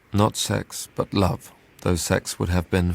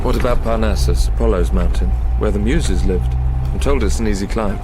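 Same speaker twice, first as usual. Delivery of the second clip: raised voice, calling ahead; loud, carrying call; 6 dB louder than usual. Acted. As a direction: call it out across the hillside. Calling out on a mountain walk.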